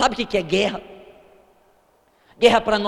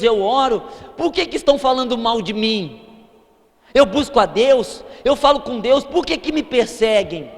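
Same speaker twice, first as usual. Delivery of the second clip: loud, aggrieved complaining believer, each "por que" pushed hard; mimicking a churchgoer protesting his trials; indignant churchgoer; 3 semitones higher, 4 dB louder than usual. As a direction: play the wronged believer who thinks serving God should spare him.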